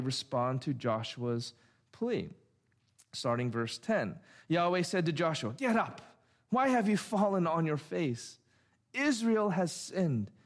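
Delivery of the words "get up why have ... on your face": measured, solemn reading of God's words; solemn scripture voice. Acted. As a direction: read it like a pronouncement from the pulpit.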